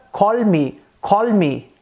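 "call me" with a clear Indian English L; Indian English accent. Shown as a demonstration. Teacher showing Indian English to learners, Indian accent. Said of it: "Já no inglês indiano fica".

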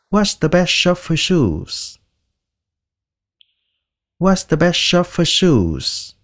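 very slow, word by word; slow model sentence. Shown as a demonstration. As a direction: spell it out slowly for beginners. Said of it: "shoes là giày". (đọc câu rất chậm)

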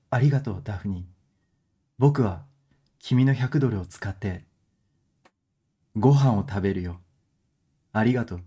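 mock good voice. Shown as a demonstration. Half-joking smooth voice, thanking Daphne for her hundred dollars. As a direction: playfully try a smooth charming voice. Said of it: "グッドボイスで言うわ".

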